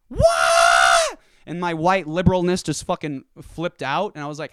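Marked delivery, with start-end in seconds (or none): 0.1-1.2 low, loud stunned shout; loud stunned what; shocked what. Retold or imitated. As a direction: blurt it out in disbelief. Shocked reaction in retold argument.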